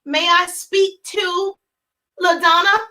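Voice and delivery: slow, drawn-out may I speak; hesitant and overly formal; slow wrong-way phone ask; mock timid asking. Shown as a demonstration. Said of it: "why you're saying".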